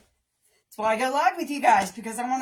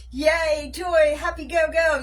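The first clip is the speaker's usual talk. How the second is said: high, louder mock hooray; cheerful cheer; 5 semitones higher, 5 dB louder, slower than usual. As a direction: cheer yourself on. Mock cheering after reps.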